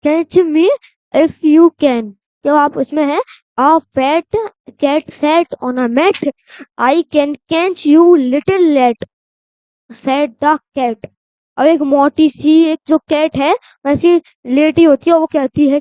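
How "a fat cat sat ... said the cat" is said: put-on reading a rhyme to children, word by word; slow, careful read-aloud; slow poem reading. Shown as a demonstration. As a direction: read each word slowly and clearly. Reads the poem slowly.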